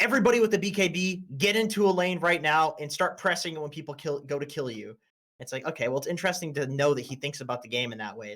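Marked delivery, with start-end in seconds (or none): 0.0-5.0 acted-out, high-pitched screaming. Retelling a game where a player screamed at the team: imitating Sumail screaming. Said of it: "Sumail was, like, screaming at my team".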